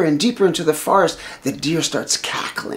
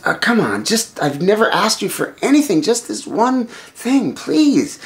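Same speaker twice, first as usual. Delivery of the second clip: higher-pitched coaxing; wheedling plea; 6 semitones higher than usual. Acted. Wife presses husband for just one thing, wheedling. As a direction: coax with a drawn-up, imploring please. Sita keeps begging her husband.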